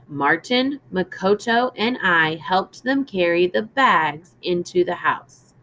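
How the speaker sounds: clear, measured storybook reading; gentle read-aloud for a class; reading to children. Acted. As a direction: read it aloud to young listeners.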